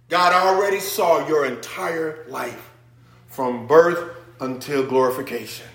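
ordinary talk, nothing marked

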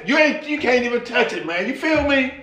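casual street-talk question; a hint of a chatty woman; mild Eve voice. Eve chatting with the serpent, lightly casual. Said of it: "when she asks".

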